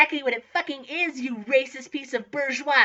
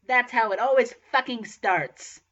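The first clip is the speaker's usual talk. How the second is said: slow, understated angry retort; mild anger; 3 semitones lower than usual. Acted. Student answering the professor, mildly angry. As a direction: answer back slowly, with a touch of anger. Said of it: "I said angrily".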